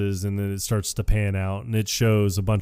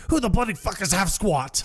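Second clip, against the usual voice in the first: mock outrage; 8 semitones higher than usual. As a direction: play at being indignantly baffled. Acted outraged movie line in retelling.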